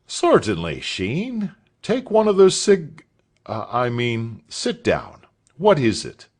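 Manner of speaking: a friendly master, a little flustered; a hint of a kindly schoolmaster; master's voice. A narrator's reading. Mr Spence speaks to Sheen.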